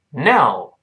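"no" with the tongue slid back behind the upper gum; retracted-tongue n. Shown as a demonstration. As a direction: start "no" on an n further back on the ridge. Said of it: "滑一点儿，发那".

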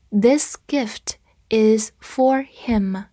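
This gift is for him whispered slowly; slow whispered reading. Shown as a demonstration. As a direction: breathe it out slowly, word by word. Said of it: "我们再读一遍".

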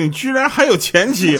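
high-pitched indignant outburst; wife catches him out, high mock anger; angry wife. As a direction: accuse him, half mock outrage. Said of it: "老婆当时就生气了".

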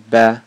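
"be" released firmly after a held pause; forceful stressed syllable. Shown as a demonstration. Teacher shows learners how to release "be", with force. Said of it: "再用力发出刚刚准备好的be".

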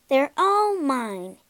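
slow, proud boast. Acted. Robber girl shows off her pets, slow proud boast. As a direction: show off your pets slowly. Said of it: "boasted the little robber girl".

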